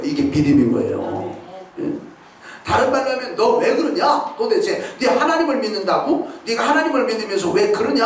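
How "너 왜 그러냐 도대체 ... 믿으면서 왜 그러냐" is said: scolding himself. Retold or imitated. Believer scolding his own doubting heart, reproachful. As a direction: rebuke yourself for losing heart. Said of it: "자기 자신을 책망하는 거예요".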